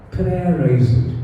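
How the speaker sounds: slow soft echo of "Prayerize it". Shown as a demonstration. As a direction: let "Prayerize it" sink in, slow. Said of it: "The second P is".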